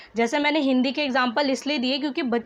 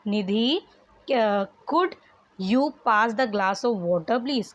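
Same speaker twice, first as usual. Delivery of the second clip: slow dictation reading; much slower than usual. Shown as a demonstration. Teacher reads answered sentence.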